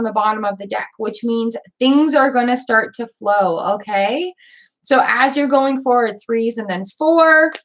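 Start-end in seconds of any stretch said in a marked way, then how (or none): 6.2-7.5 hiccuping mid-sentence; hiccups. Real, not acted. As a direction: talk through the hiccups. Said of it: "excuse me, I have the hiccups".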